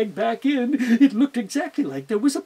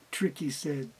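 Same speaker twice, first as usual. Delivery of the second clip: plain reading voice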